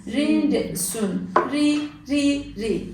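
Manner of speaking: Rince sün with a light, thin r from the tongue tip. Shown as a demonstration. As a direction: ri said thin and crisp. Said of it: "dil ucuyla hafiften incelterek".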